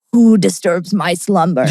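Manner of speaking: slow, low booming cave voice; cave guy voice. Retold or imitated. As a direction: boom it like the Aladdin cave. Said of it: "That's who I was impersonating".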